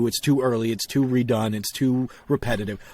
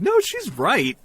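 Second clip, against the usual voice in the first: emphatic self-quote; 11 semitones higher, slower than usual. Retold or imitated. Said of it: "I was like".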